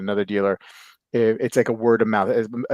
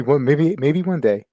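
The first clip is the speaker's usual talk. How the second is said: louder, higher and slowed on maybe one day; hopeful emphasis; 4 semitones higher, 6 dB louder than usual. Real, not acted. Host hoping guests meet someday, stretched hopeful push. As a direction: lean in hard on the wish.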